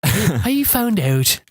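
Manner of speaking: high, very drawn-out mock Irish; exaggerated slow Irish imitation; hammed-up Irish accent. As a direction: stretch it out in a comic Irish lilt. Exaggerated Irish attempt after Scottish slip.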